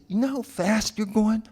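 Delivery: high-pitched mock Southern cop; hammed-up Southern traffic officer; bad Southern accent. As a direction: quiz the driver in a put-on Southern accent. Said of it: "worst impression of a Southern accent".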